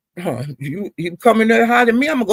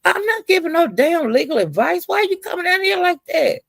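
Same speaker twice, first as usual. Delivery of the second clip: retold heated comeback; 9 semitones higher than usual. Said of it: "And I'm saying".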